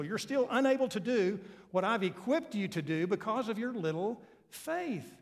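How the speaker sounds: weary, pleading rebuke; imagined Jesus rebuke. Pretend. Preacher imagining Jesus rebuking the congregation, weary. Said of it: "Jesus ... look at me nor you and say".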